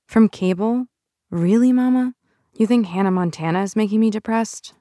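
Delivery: mock her mother's theory in disbelief; incredulous teen.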